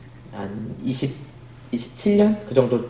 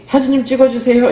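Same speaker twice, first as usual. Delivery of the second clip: high, louder request to a stranger; imitated tourist asking for a photo; tourist calling out; 11 semitones higher, 5 dB louder than usual. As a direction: call across to a passerby, pitched up high. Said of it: "저쪽에서 한국인이".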